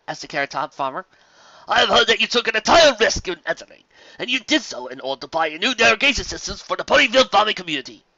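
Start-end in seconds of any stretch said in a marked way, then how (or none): 1.7-8.0 higher, louder, gracious and flattering; courtly gentleman pony. Acted. Fancy Pants flattering Carrot Top, raised and gracious. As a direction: lay the praise on politely.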